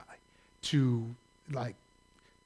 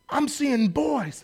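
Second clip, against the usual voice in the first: drawn-out mock vision; 6 semitones higher, much slower than usual. Stranger prophesies in story.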